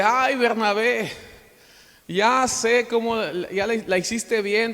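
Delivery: mock-complain to an old friend, slow and high; imitated amused exclamation. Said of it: "él se ríe y le dice".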